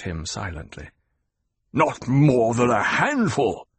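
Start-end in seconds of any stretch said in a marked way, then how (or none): 1.7-3.7 slower, insisting on handful; slow emphatic repeat. Acted. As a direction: lean on each word to be believed. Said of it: "the Baron repeated".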